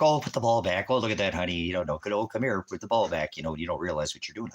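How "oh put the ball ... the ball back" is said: a lightly voiced cooing grown-up, higher; doting adult. Adult voice scolding a child who took a ball, lightly cooing. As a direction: coo at the child like a fond neighbour. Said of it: "They're like".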